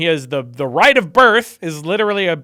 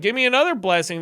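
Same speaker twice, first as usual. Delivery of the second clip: higher, mildly frantic mock plea; freaking out; 4 semitones higher, faster than usual. Son imitated demanding another blessing from father, mildly freaking out. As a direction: imitate a son pleading in a light panic. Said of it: "He starts freaking out".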